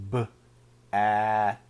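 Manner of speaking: "B-at" stretched, split after the B; slowed down. Shown as a demonstration. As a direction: pull "B-at" apart slowly. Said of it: "Let me slow it down a little more".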